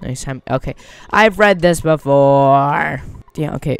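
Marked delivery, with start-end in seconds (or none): 1.1-3.0 drawn-out complaint. Real, not acted. Bored at repeated game text.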